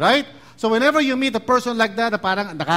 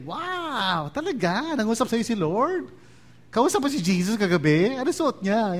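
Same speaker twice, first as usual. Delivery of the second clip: mock amazement; 3 semitones higher, 3 dB quieter than usual. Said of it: "so really impressed and amazed".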